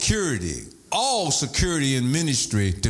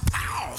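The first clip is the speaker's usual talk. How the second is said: imitated gunshot; 5 dB quieter than usual. Imitates gun kicking in her hand.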